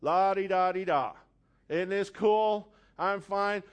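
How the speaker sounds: slow, sing-song breezy denial; mock carefree. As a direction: act like nothing's wrong, lightly. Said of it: "walking around like nothing ever happened".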